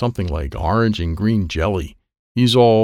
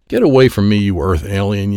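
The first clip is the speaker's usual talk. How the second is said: yelling; 5 dB louder than usual. Acted. Gloopy to the Earth kid bumping his car, yelling. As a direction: yell it to drive the other racer away. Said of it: "yelled Gloopy".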